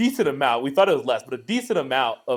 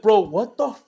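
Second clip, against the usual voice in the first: loud, high, drawn-out exasperation; retold outrage; 7 semitones higher, 7 dB louder, slower than usual. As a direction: replay how pissed you were at your friend. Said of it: "I was so pissed".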